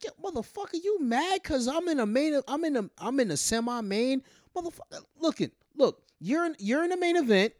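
Chris Jericho. Retold or imitated. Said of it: "Jericho's like".

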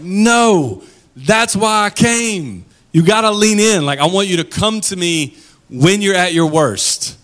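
a lightly voiced tender Jesus. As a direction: invite them in, stretching "that's why I came". Voicing Jesus, tender invitation.

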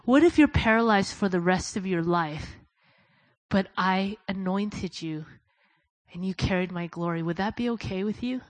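gentle divine question. Retold or imitated. God's question to paralyzed Bill.

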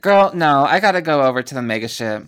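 rushing past her invitation; brusque refusal. Acted. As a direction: wave her off and hurry away. Maya rejecting lunch offer.

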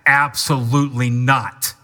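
firm, forceful no; emphatic, punched-out denial; emphatic refusal. Acted. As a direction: shut the idea down emphatically. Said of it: "It is a emphatic".

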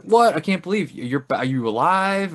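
gasping at a man back from death; shocked disbelief. Retold or imitated. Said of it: "She's like".

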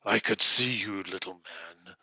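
a hint of a threatening old shaman; lightly voiced menacing priest.

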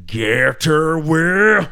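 a hint of a gruff action hero; mock movie line. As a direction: lightly bark it like a movie hero. Imitating Mel Gibson movie line.

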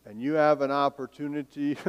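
dry sarcasm on opportunity; sarcastic. Shown as a demonstration. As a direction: say opportunity with a sneer. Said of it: "using the word opportunity sarcastically".

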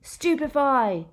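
loud, high, slow spell yell. A narrator's reading. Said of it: "yelled Harry".

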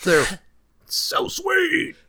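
high, slow laughing squeal; overexcited, drawn-out, laughing; gushing shout. Acted. Mock gushing over the moves.

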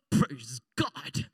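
very low, drawn-out preacher's praise; deep, weighty revival-preacher exclamation; Southern evangelist. Acted. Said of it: "if I give you a real Southern evangelist".

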